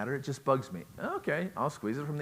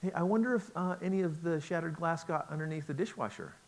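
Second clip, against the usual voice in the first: indirect hint; 5 semitones higher than usual. Retold or imitated. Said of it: "She'll say".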